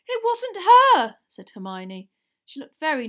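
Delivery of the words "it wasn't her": slow, high, loud protest; determined girl. A narrator's reading. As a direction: speak up in someone's defence. Hermione nervously defends Winky.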